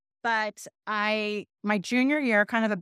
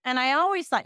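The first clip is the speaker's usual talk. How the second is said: mock snarky outburst; 5 semitones higher, 3 dB louder than usual. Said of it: "that is going to be like".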